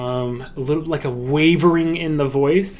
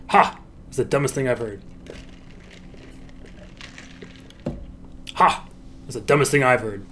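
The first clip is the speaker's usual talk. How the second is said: deadpan scoff; 3 semitones lower, 7 dB quieter, faster than usual. Shown as a demonstration. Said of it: "It looks weird, doesn't it".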